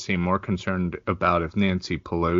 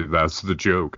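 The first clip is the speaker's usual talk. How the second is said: deadpan punchline. Retold or imitated. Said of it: "deadpan do these terrible non-jokes".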